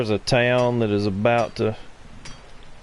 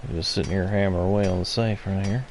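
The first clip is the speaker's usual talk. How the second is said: golf commentator; faster than usual. Pretend. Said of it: "He says in his golf commentary voice".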